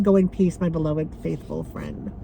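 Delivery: real tears; choked reading. Real, not acted. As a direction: voice dropping away in grief. Reads cremation certificate, crying.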